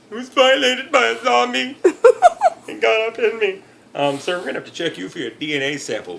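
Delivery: high, loud and giggling through it; laughing mock report. Victim filing a police report about a zombie, laughing. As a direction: read the report while cracking up. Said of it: "let me see the police report on that one".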